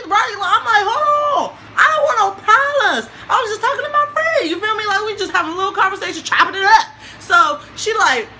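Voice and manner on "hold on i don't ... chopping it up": nervous backing down. Retold or imitated. Backing down from a fight.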